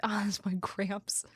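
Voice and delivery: unvoiced hushed aside; quick whispered aside. Real, not acted. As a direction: drop to a breathy whisper. Aside after gift chat.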